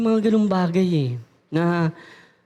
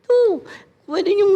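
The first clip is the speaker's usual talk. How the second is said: eager yes; 12 semitones higher, slower than usual. Retold or imitated. Eager affirming.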